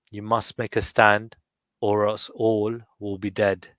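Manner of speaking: slow, measured recitation with pauses; slow poem reading. Shown as a demonstration. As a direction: let the poem breathe, slowly. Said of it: "I'll try one more time for Kerry".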